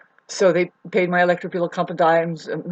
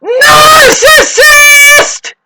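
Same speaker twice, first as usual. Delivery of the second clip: very slow, much higher, full yell; shouted insult; 17 dB louder, much slower than usual. Retold or imitated. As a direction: hurl the word at her. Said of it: "And I say".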